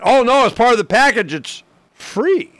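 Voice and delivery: high, bright mock sales pitch; hammed-up cable guy; cheery salesman. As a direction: imitate the chirpy installer. Imitating installer's cheerful pitch.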